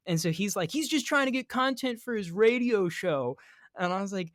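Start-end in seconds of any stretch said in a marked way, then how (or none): 0.7-3.4 higher, mocking complaint; retold indignant accusation; mock mad. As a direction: imitate an angry accuser. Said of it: "he was really mad at me".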